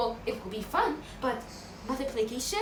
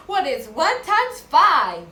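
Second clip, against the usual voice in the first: loud, slow, drawn-out question; loud prompt; 4 semitones higher, 11 dB louder, slower than usual. Shown as a demonstration. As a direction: ask it big and slow. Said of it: "I want to hear that big voice".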